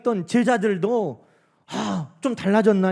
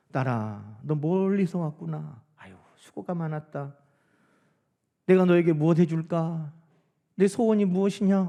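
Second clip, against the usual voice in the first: tender Jesus; 3 semitones lower than usual. Retold or imitated. Imagined tender words of Jesus.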